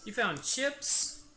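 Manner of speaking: high, loud, drawn-out question; delighted surprise. Real, not acted. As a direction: exclaim slowly to a little one. Exclaims to child who found chips.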